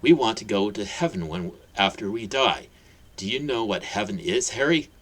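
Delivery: wise explanation. Acted. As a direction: explain gently to a child at eye level. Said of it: "Hagrid explained wisely".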